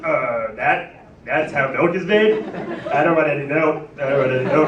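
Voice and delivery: mock disgusted child; horrified little kid. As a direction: recoil from the milk, appalled. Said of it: "I was just like".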